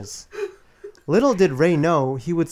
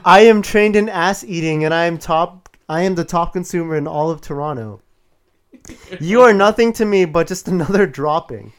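booming demon lord; 2 semitones higher than usual. Acted. Acted girlfriend's threatening rant.

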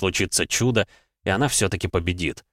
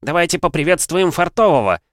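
arena announcer; 9 semitones higher, 5 dB louder than usual. Acted. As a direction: introduce the fighter to the arena. Announcer introduces the fighter.

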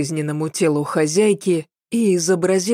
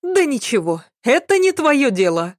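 high-pitched, brusque maid voice; dismissive maid; 8 semitones higher than usual. A narrator's reading. Maid refusing to share the gossip, high dismissive voice. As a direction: brush him off in a high voice.

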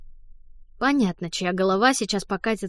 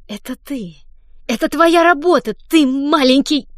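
louder and higher, indignant accusation; outraged; 5 semitones higher, 8 dB louder than usual. Acted. Fanny confronts the boy who set her up, indignant. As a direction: point the finger with rising fury. Fanny realises Don did it.

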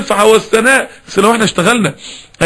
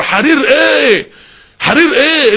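angry rebuke; 5 semitones higher, much slower than usual. Acted. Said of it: "النبي غضب ووشه احمر".

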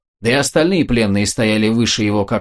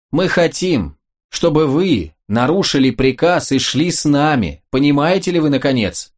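impatient shout; 3 semitones higher than usual. Acted. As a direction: lose patience and press him. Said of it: "крикнул Аскерка, потеряв терпение". (нетерпеливый крик, потеряв терпение)

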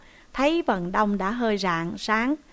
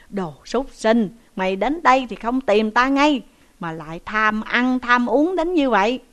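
louder, angry rebuke; scolding; 4 dB louder than usual. Acted. Uncle raising his stick while loudly scolding the nephew. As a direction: berate him with raised voice. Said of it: "miệng thì mắng rằng".

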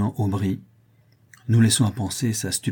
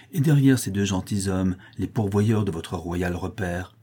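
grim accusation. Acted. Buridan accuses Jeanne at midnight.

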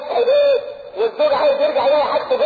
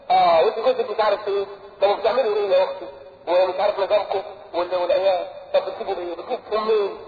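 mock nosy gossip; 4 semitones lower, 4 dB quieter than usual. Mocking a nosy visitor.

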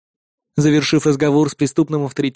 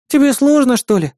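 put-on high, pouty sulky girl's voice; pouting; 9 semitones higher, 4 dB louder than usual. Sister pouting at her brother's reluctance, sulky. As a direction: pout as you tease him. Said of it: "надула она губы".

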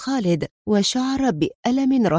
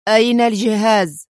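louder stern demand; 4 dB louder than usual. A narrator's reading. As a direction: press him hard, louder. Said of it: "يسأله في صرامة".

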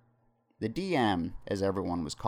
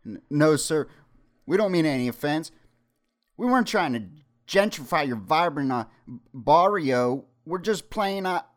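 higher, louder, fast begging; frightened pleading; 9 semitones higher, 8 dB louder than usual. Acted. Elijah begs the gunman not to hurt them. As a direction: plead for your life, rushed. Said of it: "Elijah then pleaded".

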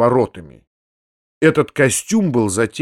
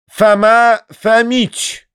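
higher, slow grand announcement; announcing; 9 semitones higher, 4 dB louder, much slower than usual. A narrator's reading. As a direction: proclaim the name ceremoniously. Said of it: "возвестил Видоплясов". (торжественно объявляя гостя)

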